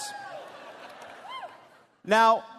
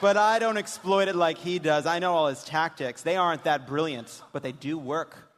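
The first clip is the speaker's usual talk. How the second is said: lower, dry reading of the texts; deadpan daughter reading; 4 semitones lower, 3 dB quieter than usual. Acted. Host voices the daughter's texts, dry and deadpan. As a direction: read the daughter's lines dryly. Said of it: "when we do this dramatic reading".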